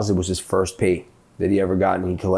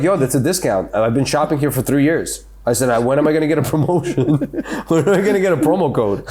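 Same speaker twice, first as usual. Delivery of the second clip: laughing mock complaint; 4 semitones higher than usual. Retold complaint to store.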